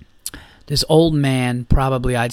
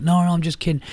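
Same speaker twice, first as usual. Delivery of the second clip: higher-pitched imitation of backing off; mock backpedaling; 4 semitones higher, faster than usual. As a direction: act out bailing on a threat. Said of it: "he was, like, bailing out of it".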